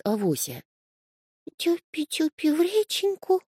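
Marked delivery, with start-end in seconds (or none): 1.6-3.4 high sleepy kitten mumble; сонный котёнок. A narrator's reading. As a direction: mumble it half asleep, high like a little kitten. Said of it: "пробормотал котёнок". (сонное бормотание котёнка высоким голосом)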